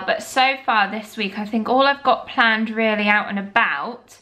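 talking while chewing gum. Real, not acted. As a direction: chew gum as you speak. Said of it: "I've got chewing gum in".

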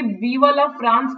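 Viva la France drawn out very slowly; slow proclamation. Shown as a demonstration. Teacher showing the words M. Hamel wrote on the board, slow and solemn. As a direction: spell out each word of Viva la France as if writing it large. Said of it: "ऐसे करके".

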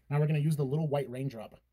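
beauty guru parody; mock tutorial voice. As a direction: drag it out like a beauty vlogger. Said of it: "Okay, I'm done. I'm sorry".

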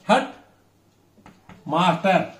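Head, pause, master, each stressed; both elements stressed. Shown as a demonstration. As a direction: split Head master into two stressed halves. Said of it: "both elements stressed".

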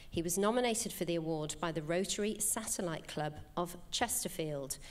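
measured awards-ceremony announcer read; formal award citation. Real, not acted. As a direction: read out the winner's story to the audience.

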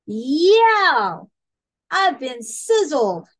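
high, drawn-out storybook wail; pained yell. A narrator's reading. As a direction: howl it out, then exclaim in outrage. Salted villain yells in pain.

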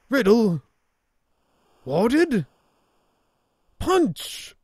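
high searching calls; calling out. Acted. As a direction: call for lost friends. Searching for friends alone.

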